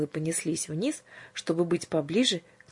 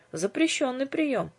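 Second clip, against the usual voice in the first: dry remark; 8 semitones higher, slower than usual. Acted. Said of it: "заметил Иоанн".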